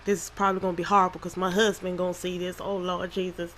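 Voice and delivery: country accent slipping out, quick at first. Real, not acted. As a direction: let a country accent slip out. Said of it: "My, my country accent came out".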